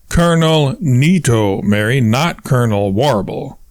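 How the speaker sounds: exasperated correction, punching "Colonel Nito" and "not"; each word emphasized. A narrator's reading. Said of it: "He emphasizes each word of his response".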